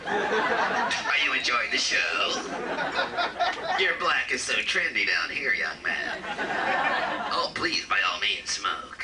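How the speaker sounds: low, slow, oily devil; Satan as host. Retold or imitated. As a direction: play the devil as a charming host. Satan voiced as gracious host.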